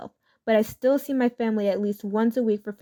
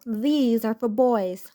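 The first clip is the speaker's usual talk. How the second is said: dismissive line; much slower than usual. Retold or imitated. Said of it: "the mother says the immortal".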